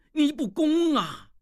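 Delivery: high, slow wail of despair; anguished cry to heaven. Acted. Ruined scholar crying out to heaven in despair. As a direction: rail at heaven, voice cracking upward.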